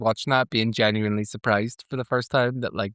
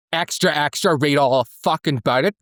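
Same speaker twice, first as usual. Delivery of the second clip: mock New York newsboy; 2 semitones higher, 4 dB louder than usual. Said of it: "New York accent".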